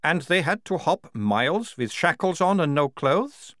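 high, slow disbelieving question; incredulous captain. Acted. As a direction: draw the question out as an astonished captain.

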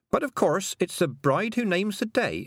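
sweetly cheerful, springing the trap; cheerfully. A narrator's reading. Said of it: "said Tiffany cheerfully".

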